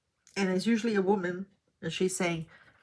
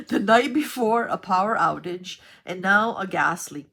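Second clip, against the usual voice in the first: exasperated; 8 dB louder than usual. Real, not acted. Exasperated recap of bad luck.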